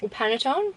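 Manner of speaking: second guess at PANETTONE, silent final E; unsure pronunciation. Real, not acted. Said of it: "I don't know how you say these things".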